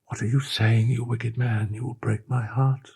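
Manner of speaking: high, impassioned, pleading declaration; passionate pleading. A narrator's reading. The girl offering herself to her captain, passionately pleading. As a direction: pour out devotion, begging.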